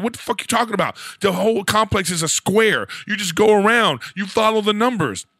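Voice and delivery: exasperated, talking down to the driver; retold exasperation. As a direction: lay it out like it's obvious. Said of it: "I'm like".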